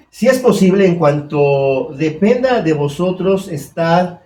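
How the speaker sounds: slow, solemn reading of the verse; scripture reading. Acted. Preacher reading the verse aloud to the church, slow and solemn. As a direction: read the verse slowly and gravely. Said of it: "Ahí dice".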